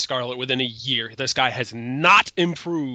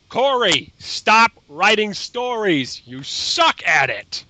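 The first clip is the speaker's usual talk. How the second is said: mock scolding; 7 semitones higher, 4 dB louder, slower than usual. Mock verdict on bad writer.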